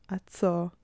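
ordinary delivery, nothing marked

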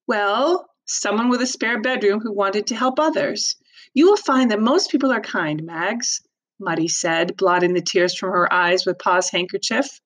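expressive read-aloud narration; story narration. A narrator's reading. Teacher reads novel aloud.

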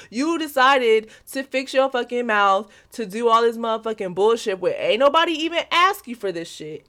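ordinary talk

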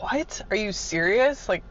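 lightly voiced irritation at being made to hunt; exasperated. Replaying her annoyed reply to the foreman, mildly exasperated. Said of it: "And I'm like".

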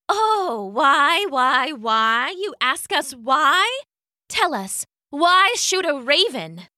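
high, mocking singsong questions; sweet turning sinister. A narrator's reading. Fairy taunts her victim about the raven, sweetly sinister. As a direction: toy with the victim, sugary menace. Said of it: "her voice moving from sweet to sinister".

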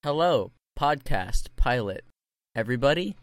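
robotic glitchy audio; broken-up call audio; buzzy glitchy call audio. Real, not acted. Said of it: "You sounded like a robot".

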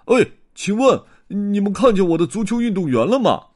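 high, loud eager bear voice; bear asking politely. Acted. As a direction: call out to the beavers. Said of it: "布鲁姆博士问河狸". (大熊高声热切地问)

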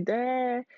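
"there" with a D for the TH, drawn out. Shown as a demonstration. Owning an accent to listeners, "there" said with a D. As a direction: say "there" like "dere", slowly. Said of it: "my T Hs".

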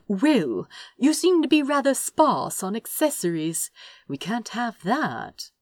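a touch of hammed-up gravity; mock seriousness. Prince fusses over Crow's outfit, mock serious. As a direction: pretend to be stern, playfully. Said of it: "with mock seriousness".

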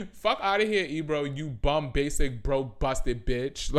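laughing roast. Real, not acted. Laughing insults at Ebro.

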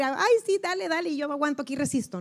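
mock a limp doormat, sing-song; hammed-up meek giving in; mocking passive endurance. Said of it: "no quiere decir".

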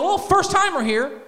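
high, sassy, defensive. Retold or imitated. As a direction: answer like a flustered diva. Sassy reply to doctor.

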